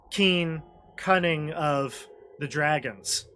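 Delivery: ordinary talk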